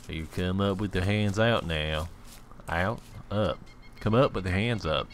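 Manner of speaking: thick hillbilly drawl; hillbilly accent. Pretend. Player calling out someone hiding by a tree, hillbilly accent. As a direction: put on a backwoods American accent. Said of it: "my best accent is a hillbilly American accent".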